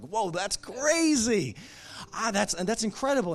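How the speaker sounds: playfully faked wonder at her crystal talk; mock amazement. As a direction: pretend to be blown away. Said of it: "I'm like".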